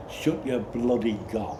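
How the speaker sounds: slow, loud shouted retort; retold shout. Boy shouting back at Charles, loud and slow. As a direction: yell it back, deliberately slow. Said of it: "and shouted".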